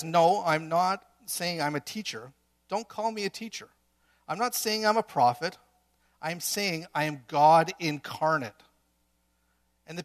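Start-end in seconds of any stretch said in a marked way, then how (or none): 0.0-8.5 emphatic Jesus declaration. Acted. Jesus voiced declaring identity.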